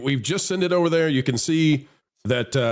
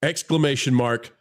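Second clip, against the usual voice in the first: deliberate all-caps readout; 2 semitones lower than usual. Retold or imitated. Host reads Mark's text to the audience, deliberate all-caps readout. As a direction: spell out each punctuation mark deliberately. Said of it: "Mark says in all caps".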